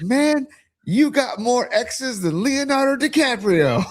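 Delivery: high, slow mock Barkley voice; lightly hammed-up Barkley; Charles Barkley impression. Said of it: "And Charles goes".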